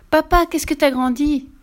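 high, loud, slow delighted exclamation; excited. A narrator's reading. Fifi teasing her father on his return, excited. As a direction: beam it out while hanging on his neck.

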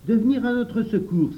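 put-on high, loud boyish cry; loud, high-pitched exclamation; exclaiming. A narrator's reading. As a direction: cry out the idea to the whole group. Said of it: "s'écria Jacques".

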